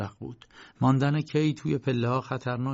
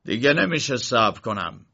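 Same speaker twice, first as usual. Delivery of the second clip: shout; 5 dB louder than usual. Acted. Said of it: "شلاقزن فریاد زد".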